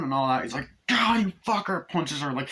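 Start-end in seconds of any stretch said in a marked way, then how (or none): 0.9-1.9 much higher, louder, snarled cursing; angry curse. Retold or imitated. Father cursing his son before punching, angry shout. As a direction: spit the insult at him.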